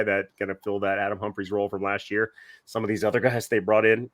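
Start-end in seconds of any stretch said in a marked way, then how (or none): 2.6-4.1 choking slightly mid-sentence; choking on a drink. Real, not acted. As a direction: talk through a catch in the throat. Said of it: "I'm sorry, I'm choking again".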